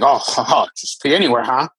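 dry, mocking ha-ha; mock disapproval. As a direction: imitate a judgy onlooker. Mimicking judgmental onlookers.

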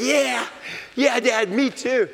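a son cheering on his dad; eager kid voice. Retold or imitated. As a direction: chirp along like a happy kid.

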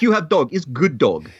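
mock Russian accent on short phrases; rough comic Russian accent. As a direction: imitate a Russian ultrasound tech. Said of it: "My Russian accent is so bad".

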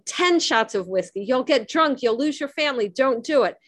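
mild mock urgent plea; imagined warning shout. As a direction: press the warning home without really shouting. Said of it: "that's trying to shout across".

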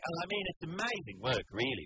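mock gushing to nobody in particular; imitating the ward patient. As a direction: mimic a patient telling the whole ward. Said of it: "see if you can work out what she's saying here".

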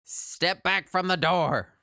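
slow, firm watchman order; a hint of a stern guard; night watchman calling hours. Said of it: "you hear him say".

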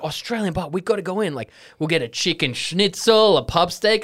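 excited friends. Retold or imitated.

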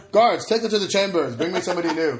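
loud, high, imperious royal command; evil queen. Pretend. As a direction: bark orders like a tyrant ruler. Mock tyrant ordering women around.

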